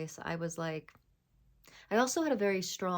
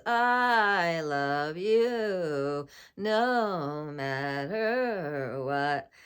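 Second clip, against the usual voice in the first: very slow, much louder, a silly put-on voice; 9 dB louder, much slower than usual. Shown as a demonstration. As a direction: stretch it out loudly in a goofy voice for fun. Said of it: "an off voice".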